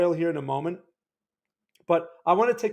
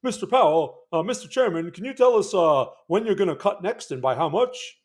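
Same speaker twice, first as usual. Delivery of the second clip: mock reporter; 3 dB louder than usual. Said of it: "all those dumb reporter questions".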